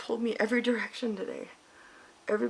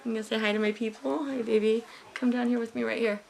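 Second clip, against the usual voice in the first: tender to her son; 2 semitones higher than usual. Real, not acted.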